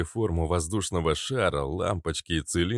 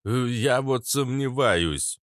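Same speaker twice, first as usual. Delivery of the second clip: put-on grumbling old man; 5 semitones higher, slower than usual. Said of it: "завёл свою волынку".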